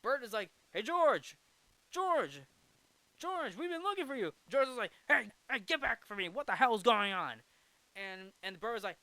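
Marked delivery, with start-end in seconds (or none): 0.7-4.3 high, loud call for a friend. Retold or imitated. Bert calls out to missing George. 5.1-7.4 alarmed warning. Retold or imitated. George wards Bert off, alarmed.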